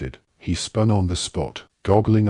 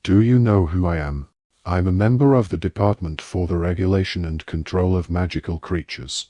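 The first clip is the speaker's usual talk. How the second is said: stern. Acted. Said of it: "said Mister Diggory sternly".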